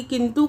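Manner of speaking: किंतु said as "kintoo", long final u; lengthened final vowel. Shown as a demonstration. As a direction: draw out the u ending of किंतु. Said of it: "छोटे ऊ की मात्रा की जगह बड़े".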